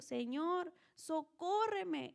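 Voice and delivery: slow, pleading call; desperate cry. A narrator's reading. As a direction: cry out to the Lord for help. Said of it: "se postró ante él diciendo".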